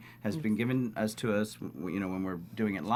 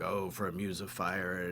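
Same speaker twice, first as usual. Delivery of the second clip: Shakespeare monologue; 5 semitones lower, 7 dB quieter than usual. Retold or imitated. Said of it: "big monologue".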